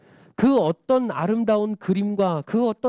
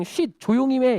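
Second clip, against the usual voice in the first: hushing; 6 semitones higher, 3 dB louder than usual. Acted. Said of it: "이렇게만 안 했을 수도".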